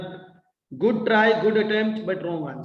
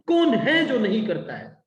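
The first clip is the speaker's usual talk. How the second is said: "कौन" stressed at the start, falling end; teacher's emphatic "कौन"; emphatic question; 3 semitones higher, 3 dB louder, much faster than usual. Shown as a demonstration. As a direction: press on "कौन" to make the question pointed. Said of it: "You need to put emphasis on the question".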